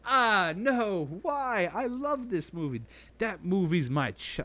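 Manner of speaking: high, whiny mock protest; hammed-up wounded viewer; upset fan. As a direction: imitate a hurt fan defending their favourite. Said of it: "and you'll be like".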